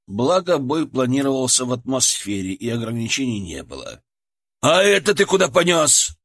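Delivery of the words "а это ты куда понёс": loud, high barking tyrant; barked shout. Acted. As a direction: bark it at the soldier like a furious commander. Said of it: "рявкнул тиран".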